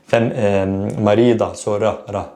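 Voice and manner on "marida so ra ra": "marida" with one light tapped R; soft R. Shown as a demonstration. Teacher demonstrates feminine form, soft tapped R. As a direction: tap "ra" quickly in "marida". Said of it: "with regards to the soft R".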